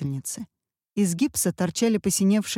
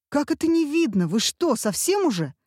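high indignant disbelief; shocked, almost shouting; outraged disbelief; 8 semitones higher than usual. A narrator's reading. Муж в панике возмущается. (возмущённое изумление, выше)

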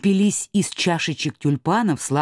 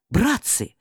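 calling out; 6 semitones higher than usual. Acted. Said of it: "закричал Чумилка".

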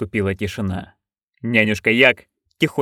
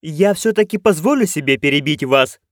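raised voice; 5 semitones higher than usual. Acted. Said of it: "чуть повышая голос".

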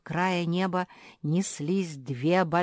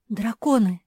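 higher, louder alarmed shout; frightened cry; 6 semitones higher, 8 dB louder than usual. A narrator's reading. Zefirka sees the dragons coming, frightened cry. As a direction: cry out at the darkening sky. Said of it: "испугалась Зефирка".

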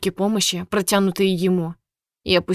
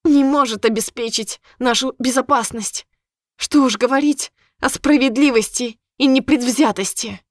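higher, scornful mockery; mocking; 4 semitones higher than usual. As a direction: sneer each word. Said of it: "В её голосе послышалась насмешка".

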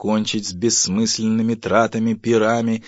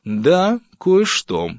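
high, louder pointed dryness; dry reply; 10 semitones higher, 7 dB louder, much slower than usual. Acted. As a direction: answer the wife curtly. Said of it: "сухо ответил". (сухо, с нажимом)

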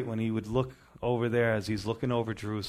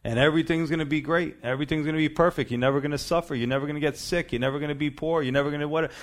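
mocking false gospel; 4 semitones higher, faster than usual. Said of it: "a false gospel message".

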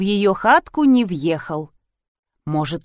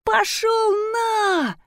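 high, very slow howling shout; furious scream; 14 semitones higher, much slower than usual. A narrator's reading. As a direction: bellow it in rage. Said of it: "вопил мужчина".

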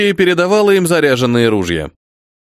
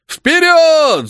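higher, louder drawn-out cry; charging yell; 13 semitones higher, 3 dB louder than usual. A narrator's reading. Lieutenant follows the colonel into the charge, loud yell. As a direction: throw yourself into the attack. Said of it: "закричал Голицын".

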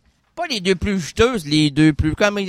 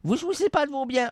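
ghost voice; 7 semitones higher, 7 dB quieter, faster than usual. Acted. Spirit asks the question.

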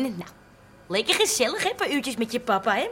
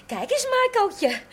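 put-on langzaam, hoog babypraatje; koerend tegen baby; 2 semitones higher, slower than usual. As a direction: coo slowly to the baby. Grootouder praat tegen de baby. (lief kirrend tegen een baby)

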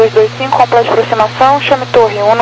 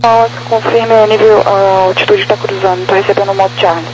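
over a crackly radio; radio transmission; 2 semitones lower than usual. Real, not acted. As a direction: talk like on an aircraft radio. Controller radio query.

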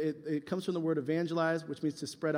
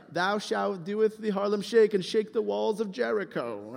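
slow mock-biblical proclamation; mock scripture reading; 2 semitones higher than usual. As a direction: pretend to quote solemn scripture, drawn out. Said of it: "yeah, in chapter five".

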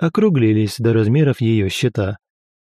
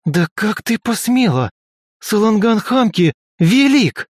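furious rebuke; 9 semitones higher than usual. A narrator's reading. Lika raging at Velga for insulting her god, furious. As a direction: defend the god's greatness hotly. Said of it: "зарычала Лика".

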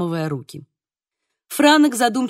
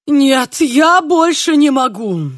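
slow, louder exasperated wail; groaning; 4 semitones higher, 7 dB louder, slower than usual. A narrator's reading. Tereza groans at the father's blunder, slow loud exasperation. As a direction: cry out that you can't take any more. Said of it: "застонала Тереза".

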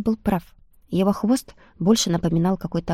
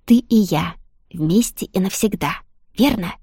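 distant voice; 3 dB louder than usual. Acted. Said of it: "Словно издалека раздался голос Айса".

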